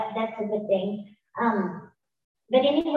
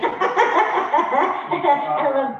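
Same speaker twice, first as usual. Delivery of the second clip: laughing; 3 semitones higher, 6 dB louder than usual. Real, not acted. Laughing at Matt.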